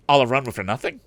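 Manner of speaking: put-on a boy griping the trip was wasted; disgusted. A narrator's reading. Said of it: "in disgust".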